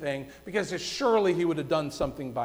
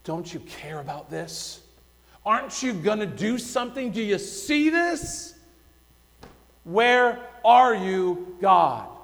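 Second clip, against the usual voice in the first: rising, pleading cry of complaint that slows at the end; bitter lament. Retold or imitated. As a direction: call out to an absent God in mild anguish. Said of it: "in a bitter lament".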